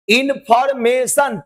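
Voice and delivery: Information slowly in four separate beats; broken into syllables. Shown as a demonstration. Teacher showing four parts, Information slowly syllable by syllable. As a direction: divide Information into in, for, ma, tion. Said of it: "चार parts".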